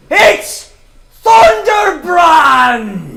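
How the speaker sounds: huge, high, drawn-out bellow; booming announcement voice. Acted. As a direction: boom it out like a stage conjurer revealing a trick. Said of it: "booming presti-, or, yeah, prestidigitation voice".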